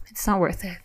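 softly spoken, composed reassurance; gentle, hushed calm. Shown as a demonstration. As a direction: show how to calm someone, keeping it quiet. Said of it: "just like this, very calm".

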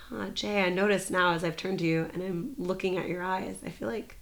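softening into a quiet, reflective admission; gentle sharing demo. Shown as a demonstration. Guest shows birthday circling by sharing with Jay, gentle and reflective.

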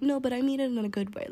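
quick, mocking replay of "No, but I mean it in a good way"; mocking her excuse. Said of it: "and then be like".

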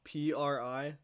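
letters said one by one slowly; spelling it out. Real, not acted. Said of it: "can you spell it out for me".

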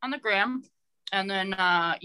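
chewing noisily. Real, not acted. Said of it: "Sorry, I'm eating beef jerky".

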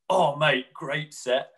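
bright, high-pitched polite mate voice; chirpy stock backstage praise; polite stock compliment. Retold or imitated. Muso to the other band, bright polite compliment. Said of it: "everyone always says the sentence".

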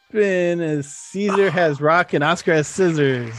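game host revealing the result; drawn-out announcement. Real, not acted. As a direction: stretch the opening out slowly for suspense.

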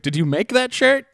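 asking in a high, quizzical voice; high quoted woman. Retold or imitated. Retelling the woman's question.

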